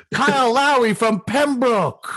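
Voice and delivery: high laughing announcer call. Real, not acted. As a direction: laugh out the name slowly. Laughing announcer-style joke.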